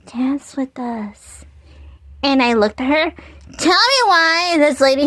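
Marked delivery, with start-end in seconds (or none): 0.1-1.4 soft breathy whispered invitation; whispered invite. Retold or imitated. The gliding woman luring the narrator, eerie whisper. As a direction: whisper it like a ghostly lure. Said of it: "She was like".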